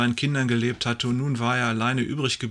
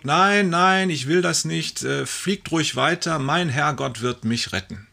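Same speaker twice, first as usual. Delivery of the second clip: shouted back; 4 semitones higher than usual. Acted. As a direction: yell it back up at the helicopter. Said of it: "er brüllt zurück".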